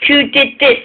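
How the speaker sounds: high demanding cry; outraged question. Acted. Duncan finding the wrecked trucks, high outraged question. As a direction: demand who did it.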